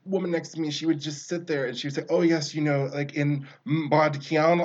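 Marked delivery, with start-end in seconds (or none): 2.1-4.6 hammed-up pretentious student choking on Mädchen; mock the classmate, dragging out Mädchen slowly. Mocking a pretentious classmate who mangles German, hammed-up. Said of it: "she would just choke on the syllables".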